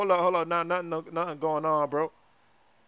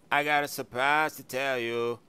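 lower, droning singsong delivery; singsong rapper style; 4 semitones lower than usual. Acted. A rapper announces a surprise to friends, singsong. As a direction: talk as if half singing, pitched low. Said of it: "sounds like he's singing or something".

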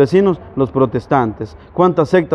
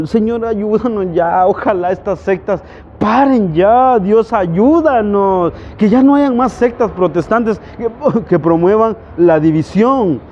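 pleading prayer; 3 semitones higher than usual. Real, not acted. Preacher begging Christ to unite the church, pleading prayer. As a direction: implore heaven for help. Prays aloud for unity.

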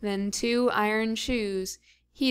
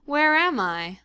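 cry; 4 semitones higher, 4 dB louder than usual. Acted. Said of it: "cried she".

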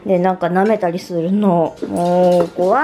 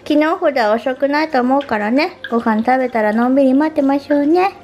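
gentle pet talk; 5 semitones higher than usual. Real, not acted. Owner tells the dogs dad is coming, gentle cooing. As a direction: reassure the pups kindly.

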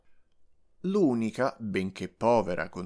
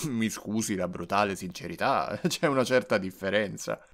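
laughing. Acted. Doctor chuckles at patient.

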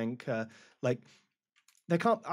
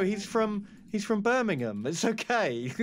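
acted reassurance; 6 semitones higher than usual. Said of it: "And we're just like".

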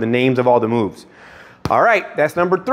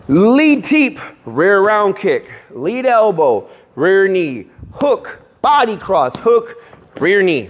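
firm punchy combo callout; coach calling combos. Shown as a demonstration. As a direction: bark each strike name crisply. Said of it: "coach repeats combo callout".

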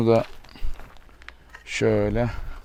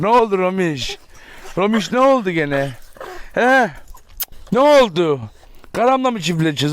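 pet talk; 3 semitones higher than usual. Real, not acted. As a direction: ask the pet what's wrong in a sing-song. Cooing to the dog Romiş.

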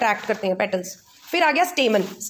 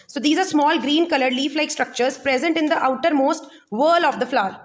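very slow, spaced-out note dictation; dictating a textbook definition word by word; much slower than usual. Acted. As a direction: read it out slowly so students can write it down. Dictating notes slowly.

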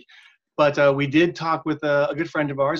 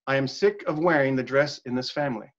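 flat line reading with no inflection; even, uninflected quote; monotone read; 3 dB quieter than usual. Shown as a demonstration. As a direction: read it deadpan so nobody can tell who said it. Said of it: "I'm gonna read it kinda monotone".

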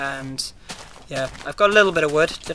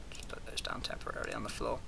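soft whisper; 3 semitones lower, 16 dB quieter than usual. Real, not acted. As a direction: whisper it nervously. Nervous something in the room.

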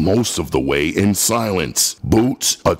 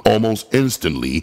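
plain reading voice

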